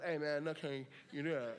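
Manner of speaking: casual, unbothered murmur of reassurance; imitated calm dad. Hooked dad brushing it off to his son, calmly. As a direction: play it down, mock-casual and calm. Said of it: "And yet he's calm, just going".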